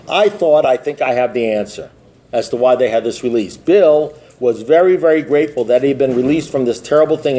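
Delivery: measured, even story narration; reading aloud. Acted. AA member's story of early recovery, measured reading aloud. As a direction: read the testimony steadily, phrase by phrase. Reads a printed testimony aloud.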